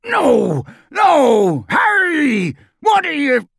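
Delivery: high, frantic cries while struggling; anguished shouts of protest; desperate yelling. A narrator's reading.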